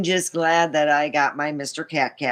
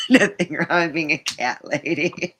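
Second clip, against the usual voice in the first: laughing; 4 dB louder than usual. Real, not acted. Laughing while talking.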